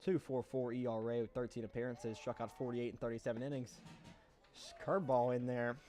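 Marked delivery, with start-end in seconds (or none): 4.6-5.8 breathless call between pitches; winded, still catching breath. Real, not acted. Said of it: "Sorry, I'm a little out of breath".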